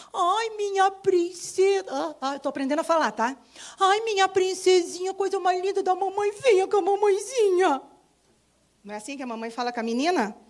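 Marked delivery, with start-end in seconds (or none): 0.1-1.8 higher, slow, doting mother voice; mother to daughter. Retold or imitated. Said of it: "como que a mamãe fala com as meninas?". 3.8-7.8 higher, doting mother voice; mother to daughter. Retold or imitated. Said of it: "como que a mamãe fala com as meninas?".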